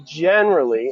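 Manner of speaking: "generally" stressed and stretched out; "generally" set apart with weight; emphasis on generally. Real, not acted. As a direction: lean on the word "generally". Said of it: "I really wanna emphasize that word".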